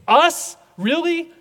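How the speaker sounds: high, disbelieving "Us? Really?"; stunned, delighted disbelief; incredulous. Pretend. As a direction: marvel that they'd pick us. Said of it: "and think".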